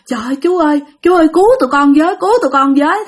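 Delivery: crying, fast, begging for help; frightened girls begging rescue; pleading cry. Retold or imitated. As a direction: plead with the men through tears. Terrified girls begging patrol.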